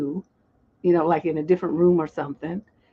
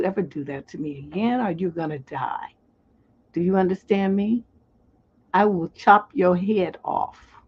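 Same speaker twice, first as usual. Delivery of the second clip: unraised, measured warning; calm threat. Shown as a demonstration. Telling a man he's gonna die, in a calm, regular tone. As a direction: threaten them in an everyday tone, never yelling. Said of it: "notice the tone of voice I'm saying it in".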